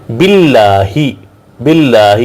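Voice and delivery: "باللہ" as bil-laah, light double L and long aa; thin Allah lam. Shown as a demonstration. Teacher repeating "باللہ" for learners, L kept thin. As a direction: keep the L thin and held in "باللہ". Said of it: "اس کو break پڑھا جاتا ہے".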